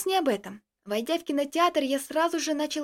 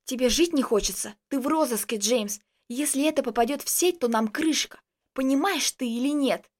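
ordinary delivery, nothing marked

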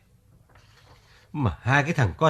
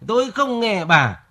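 "Tôi không nghe bà" higher and slow, singsong mockery of her nagging; mocking wife's refrain; 5 semitones higher, slower than usual. Husband mocks his wife's nagging refrain, slow and higher. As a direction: parrot her nagging line slowly. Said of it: "Vẫn cái điệp khúc tôi không nghe bà".

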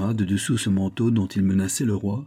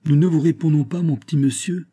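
loud and much higher, a giant thundering; booming stentor voice; 7 semitones higher, 5 dB louder than usual. A narrator's reading. Giant guard booming down at the captive king. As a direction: boom it out like a herald. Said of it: "d'une voix de stentor".

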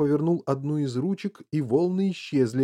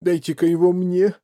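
louder, higher fatherly demand; firm demand; 6 semitones higher, 7 dB louder than usual. A narrator's reading. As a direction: take charge sharply. Father takes over during tantrum.

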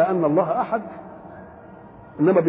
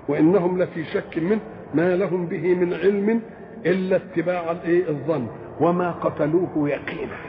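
Quran recitation. Acted.

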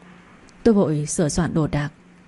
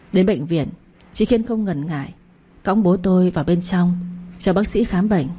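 ordinary delivery

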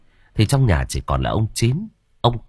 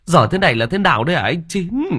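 a touch of rising, higher indignant scolding; father scolding the coffin maker, mildly angry; mild anger; 6 semitones higher than usual. Acted. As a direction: scold the coffin seller, getting heated. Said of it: "nổi giận".

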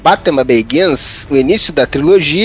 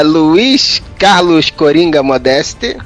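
slow, drawn-out ringside announcement; announcer voice; much slower than usual. Pretend. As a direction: drawl out the name like a boxing announcer. Hosts introducing the panel.

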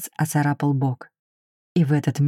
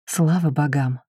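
relieved sigh. Acted. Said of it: "С видимым облегчением вздохнула девушка".

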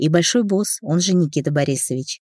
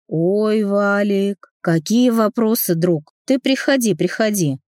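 sugary, much higher mock friendliness; mock friendly; 4 semitones higher, slower than usual. Brother on the phone luring the harasser in, fake friendly. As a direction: lure him in with fake warmth.

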